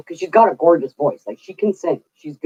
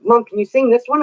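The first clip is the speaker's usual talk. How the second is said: higher, rising request; lightly voiced pleading kid; imitated eager son; 5 semitones higher than usual.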